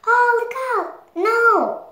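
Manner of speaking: high frantic yelp of alarm; panicked. Acted. Fear yelping at Riley's danger, panicked. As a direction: shriek a warning in panic. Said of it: "Fear was in charge of safety".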